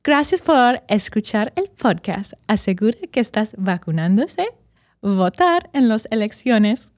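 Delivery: polite announcement voice; flight attendant. Real, not acted. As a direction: read it like a cabin announcement. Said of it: "I sound like a flight attendant".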